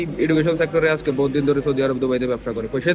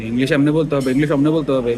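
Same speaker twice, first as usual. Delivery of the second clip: louder, preachy parroting of the tutors' rule, said twice; mock teacher quote; 4 dB louder than usual. Mocking English tutors to his viewers, louder and scornful. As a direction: sneer it back like a know-all tutor. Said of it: "তোর করে এসব কিছু শিখাইতে কইছে কে বেটা".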